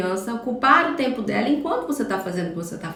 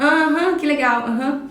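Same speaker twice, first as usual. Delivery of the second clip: absent-minded aham without looking up; distracted mom; 3 semitones higher, 4 dB louder than usual. Mother half-listening to her child, distracted. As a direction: brush the child off while busy. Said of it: "E você pega e faz assim".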